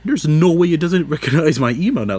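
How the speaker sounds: baffled, laughing disbelief. Retold or imitated. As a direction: squeak in outrage at the site. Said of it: "And I was like".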